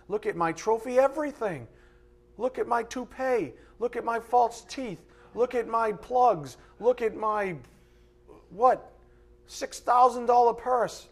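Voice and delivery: high, mock bragging list; boastful self-made man. Preacher mocks self-made man showing off trophies, boastful. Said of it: "I'm a self-made man".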